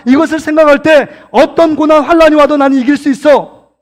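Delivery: fervent sermon climax; forceful preaching. Real, not acted. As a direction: preach it in driving phrases, rising to the end.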